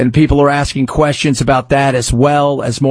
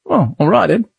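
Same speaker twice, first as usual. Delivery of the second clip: put-on British accent; 2 semitones higher than usual. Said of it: "British accent".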